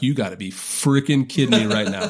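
a laugh breaking through the words; half-laughing, stunned and amused; laughing disbelief. Retold or imitated. Telling the host about the Time cover, laughing disbelief. Recalling disbelief at magazine photo.

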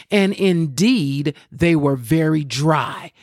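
measured, emphatic Bible reading; scripture reading. Acted. Preacher reading Ezekiel to listeners, emphatic scripture reading. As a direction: read the verse out, drawing out key words.

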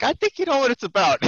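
high, loud Boston-accented sergeant impression; hammed-up Boston master sergeant. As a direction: throw it back knowingly in a mock Boston accent. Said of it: "heavy, like Boston accent too".

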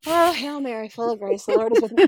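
hammed-up praying aloud, building to a laugh; praying out loud. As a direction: burst into the rosary to dodge a question. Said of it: "Just, like, out loud".

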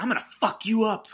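high-pitched villainous threat; hammed-up evil taunt; cartoonishly evil girl. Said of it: "cartoonishly evil right from the start".

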